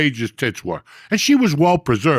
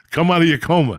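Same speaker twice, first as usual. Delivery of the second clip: calling it out louder at the dozing friend; 5 semitones higher, 5 dB louder than usual. Real, not acted. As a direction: raise the voice to wake Lee.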